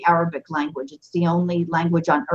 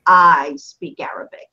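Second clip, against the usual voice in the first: whispered, slow; hushed whispered line; 4 semitones lower, slower than usual. Shown as a demonstration. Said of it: "gives it a little bit of added emphasis".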